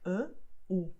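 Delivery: E and U sent through the nose; nasal-sounding E, then nasal U; nasal vowels. Shown as a demonstration. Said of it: "you have nasal sounds like".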